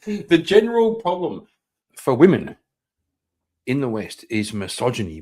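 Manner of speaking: mocking repeat. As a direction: parrot it back, ridiculing. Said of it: "laughs, then mocks the line".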